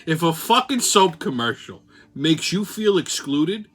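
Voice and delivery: put-on old-school Brooklynese; Brooklyn accent. Crazy train host mocking the news for listeners, Brooklynese. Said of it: "go with the old Brooklynese".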